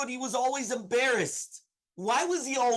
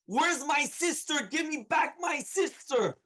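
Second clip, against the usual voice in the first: higher, slow mock scream; retold scream; 5 semitones higher, slower than usual. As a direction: act out a screamed demand at moderate volume. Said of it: "he started screaming".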